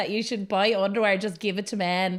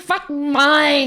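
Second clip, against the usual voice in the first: high, loud mock East Asian accent; 5 semitones higher, 5 dB louder than usual. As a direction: put on a TikTok accent. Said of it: "you sounded Asian".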